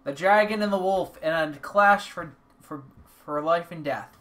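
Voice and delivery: loud dramatic clash announcement; epic announcer voice. Acted. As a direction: announce the showdown like a trailer. Dramatic card battle narration.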